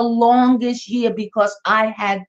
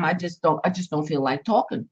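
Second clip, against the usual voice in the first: low and much softer, pulling away; withdrawn; 5 semitones lower, 6 dB quieter, faster than usual. Acted. Tired person explaining they need quiet, low and soft. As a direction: murmur it like you've shut down. Acted quote of someone withdrawing.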